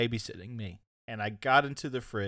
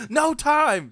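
sudden high yell, much louder; Red yelling for cold hot dogs; 11 dB louder than usual. Retold or imitated. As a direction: bark it out in a panic, pitched way up. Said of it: "And he yells".

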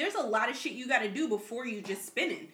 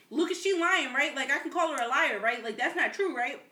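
incredulous; 4 semitones higher, 4 dB louder than usual. Retold or imitated. Incredulous question to friend.

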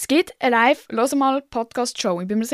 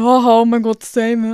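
loud mock-excited outburst; imitated excited friends; 8 dB louder than usual. Followers writing back that they relate, imitated excitement. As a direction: act out followers gushing over a shared joke. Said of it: "sind dann so".

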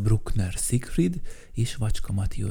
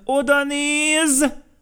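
much higher, slow, amazed; excited exclamation; 3 dB louder, much slower than usual. A narrator's reading. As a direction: point and marvel. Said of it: "narrator exclaims". (elképedt felkiáltás)

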